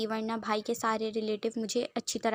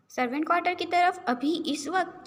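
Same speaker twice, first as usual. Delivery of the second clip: higher-pitched, puzzled disbelief; surprised question; 7 semitones higher than usual. Acted. Brother startled by the news. (حیرانی بھرا سوال)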